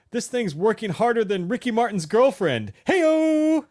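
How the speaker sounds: high, loud Scottish janitor voice; Scottish accent. Retold or imitated. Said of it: "In, like, a Scottish accent?".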